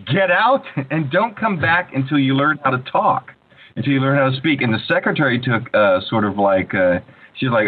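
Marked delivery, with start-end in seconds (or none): 0.1-4.6 a lightly voiced stern headmaster, a little higher; mildly mock the headmaster throwing him out. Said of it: "the headmaster said".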